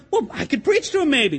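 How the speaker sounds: Paul with a little laugh, coaxing; a chuckling hopeful try; Paul half laughing as he pleads. Retold or imitated. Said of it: "Maybe I can preach to him".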